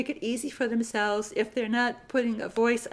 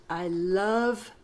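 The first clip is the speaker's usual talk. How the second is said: slow dictation repeat; 3 semitones lower than usual. Shown as a demonstration. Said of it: "Sentence fifty-five".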